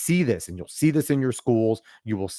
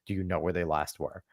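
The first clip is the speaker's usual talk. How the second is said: softer, lower caring questions; gentle concern; 3 semitones lower, 7 dB quieter than usual. Retold or imitated. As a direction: ask gently if they're okay. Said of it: "asking them".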